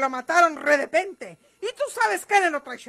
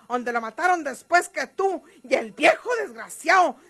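rising fury ending in a shouted insult; angry accusation; 3 dB louder than usual. Acted. María Eugenia accuses Gumaro of betrayal, furious. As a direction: spit out the betrayal, then yell coward.

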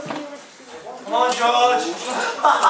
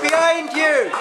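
yelling from the sidelines. Real, not acted. Warning shout to player.

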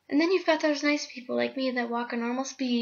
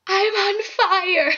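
laughing; 10 semitones higher, 5 dB louder, much slower than usual. Pretend. Face filter, laughing.

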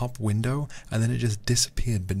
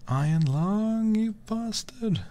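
higher, louder curse at the game; mock angry shout; 13 semitones higher, 3 dB louder, slower than usual. Real, not acted. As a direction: yell at the game in frustration. Cursing the game.

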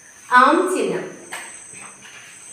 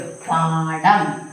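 പാഠം drawn out very slowly, syllable by syllable; very slow spelling; 3 semitones lower, much slower than usual. Shown as a demonstration. Teacher spelling the word out for pupils, very slowly. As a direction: stretch out every sound of പാഠം. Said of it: "ആ ചിഹ്നം ഇട്ടു".

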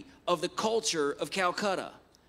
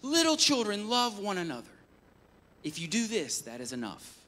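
tender elder. Retold or imitated. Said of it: "He says".

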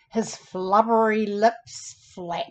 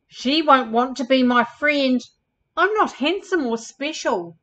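higher-pitched, insecure camel voice; mildly anxious storybook character; self-doubting camel character; 3 semitones higher, 4 dB louder than usual. Acted. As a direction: lightly voice a camel fretting about himself. Lovelorn camel doubts himself in story.

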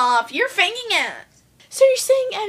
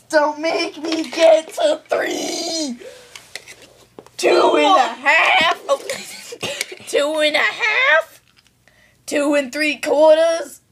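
teasing countdown; 2 semitones higher, 5 dB louder than usual. Acted. Stalling countdown taunt.

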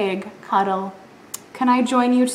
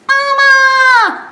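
high wailing call of mama; piglet crying for mama; 8 dB louder than usual. Acted. Lost piglet calling for mama, high wail. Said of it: "said Piglet".

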